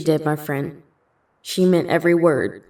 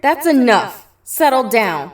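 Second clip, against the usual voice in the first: louder, higher, firm; calm the kids by force; firm scolding; 4 semitones higher, 5 dB louder than usual. Acted. The dance teacher breaks up the fight, firm and loud.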